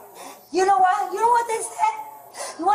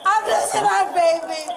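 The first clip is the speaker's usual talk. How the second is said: distressed wailing. Real, not acted. Cries out she is losing baby.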